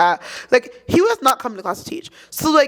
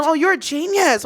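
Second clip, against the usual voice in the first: sarcastic; 3 semitones higher than usual. Retold or imitated. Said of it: "but, like, sarcastic".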